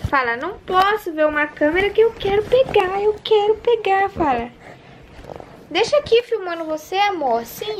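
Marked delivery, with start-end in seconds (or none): 0.4-4.1 put-on high voice for the baby; speaking for baby. Voicing the baby's wants.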